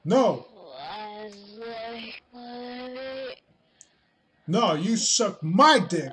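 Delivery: loud, high comeback; mock angry retort. Arguing back at the video, mock angry. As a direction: throw the insult back in mock fury.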